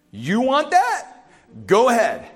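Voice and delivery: slow, mocking challenge with a laugh; teasing go-ahead; sarcastic dare. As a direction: dare them, half laughing.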